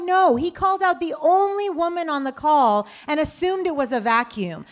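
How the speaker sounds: mildly heated retold objection; indignant. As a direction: lay down the line. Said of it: "I'm like".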